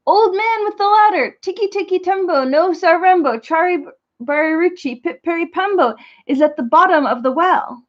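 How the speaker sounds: one last desperate shout for help. Acted. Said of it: "he shouted".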